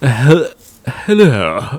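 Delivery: very breathy, falling off, fading away on a breath. Trying a breathy Jonathan Pryce impression for the others. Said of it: "He has that very breathy way".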